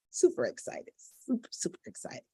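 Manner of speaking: excited whisper; whispering super excited; whispered excitement. Shown as a demonstration. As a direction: hush it but keep the thrill. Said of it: "But be quiet".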